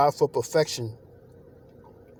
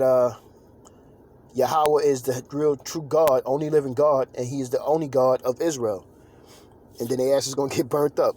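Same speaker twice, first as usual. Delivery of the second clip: preaching; 3 semitones higher than usual. Acted. Preaches about enemies.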